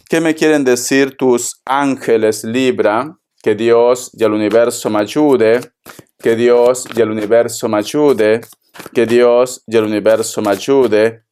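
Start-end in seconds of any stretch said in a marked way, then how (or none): 3.4-5.6 solemn low plea to God and the universe; prayerful plea. Acted. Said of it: "repeated invocation". 6.2-11.3 same solemn low plea, said again; prayerful plea. Acted. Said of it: "repeated invocation".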